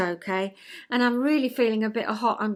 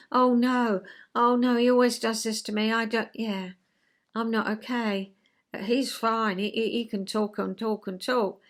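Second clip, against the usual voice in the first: mild whining. Shown as a demonstration. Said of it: "No, I've got away from him in adult".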